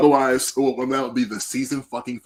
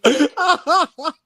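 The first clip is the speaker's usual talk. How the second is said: Skeletor laugh; 5 dB louder than usual. Acted. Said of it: "like a deep Skeletor laugh".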